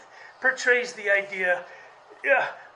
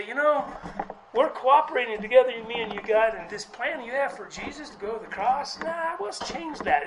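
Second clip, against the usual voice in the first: Peter talking Jesus out of it, a bit louder and quicker; mock Peter; 3 semitones higher, 3 dB louder than usual. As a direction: play Peter trying to change God's plan, lightly. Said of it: "be like Peter and say".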